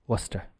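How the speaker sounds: "Worcester" said softly as WUSS-ter; phonetic pronunciation. Shown as a demonstration. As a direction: quietly model "Worcester" in two syllables, WUSS-ter. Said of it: "it would be like this".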